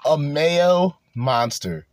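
drawn out slowly; slow savoring repeat. Retold or imitated. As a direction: savor every word slowly. Savoring the clip line slowly.

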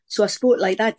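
light Sunderland lilt, demonstrated; Sunderland accent. Shown as a demonstration. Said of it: "I came from Sunderland".

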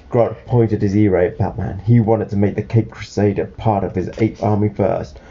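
put-on clear, lively read-aloud to a child; storybook narration.

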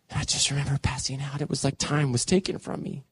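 low, hushed, spent voice; drained recollection. Retold or imitated. Man recalls passing out after the storm, drained and hushed. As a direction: let it sink down soft, as if fading out.

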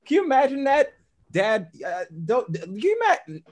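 high, loud laughing protest; laughing disbelief. Real, not acted. Man laughs at getting a but, laughing disbelief.

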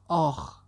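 narrated groaning ouch; pained cry. A narrator's reading. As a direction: let out a storyteller's "ow". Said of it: "لیندا تنبله داد زد".

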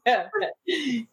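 short imitated chuckle; stifled mock chuckle; Kevin's chuckle. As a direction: chuckle as if trying to hold it in. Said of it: "Kevin chuckles a little harder".

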